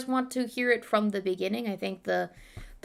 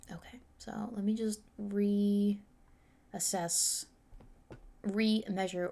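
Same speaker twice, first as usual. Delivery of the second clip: whispering; 6 dB quieter, much slower than usual. Real, not acted. Muttering while finding her place.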